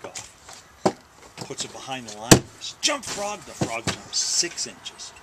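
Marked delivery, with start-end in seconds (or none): 2.8-3.4 higher-pitched order at usual volume; mock command. Boy repeats his test on the frog, mock command. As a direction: give the frog a raised, acted order.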